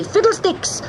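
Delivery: "Fiddlesticks" cried high and strong; loud shout. Acted. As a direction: yell the magic word as he lands. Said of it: "shouting loudly".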